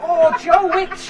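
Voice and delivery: laughing groan. Real, not acted. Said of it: "Got cramp".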